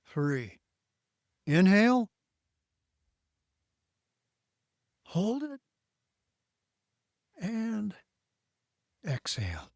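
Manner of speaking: calm, guided breathing count; breathing exercise. Shown as a demonstration.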